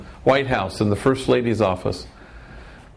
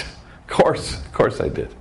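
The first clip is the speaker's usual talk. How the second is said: sheepish whisper; slower than usual. Retold or imitated. Caught lying to the priest.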